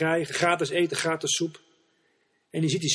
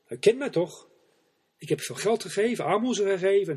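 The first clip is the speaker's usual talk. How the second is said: indignant pleading; 5 semitones higher than usual. Acted. Archbishop pleads with the angel.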